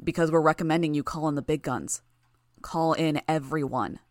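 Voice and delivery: a hint of a deep, eerie figure. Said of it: "his deep, eerie voice".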